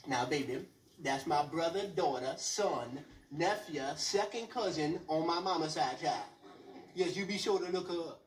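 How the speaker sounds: put-on low, slow, sweet old grandma; grandma in South Carolina, lightly voiced old lady; mock grandma. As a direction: coo it at your grandson. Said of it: "She's like".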